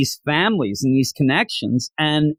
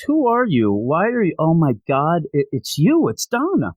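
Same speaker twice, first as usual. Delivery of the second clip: higher, mildly stunned mock reunion voice; shocked recognition; 3 semitones higher than usual. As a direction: act out questioning that turns to astonished recognition. Woman recognizes lost daughter in retelling.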